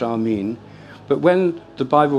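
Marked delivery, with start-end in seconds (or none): 0.0-0.6 "Amin" as ah-MEEN; long ee closing "Amin"; Islamic pronunciation. Shown as a demonstration. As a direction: say "Amin" ending like "mean". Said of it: "it's pronounced".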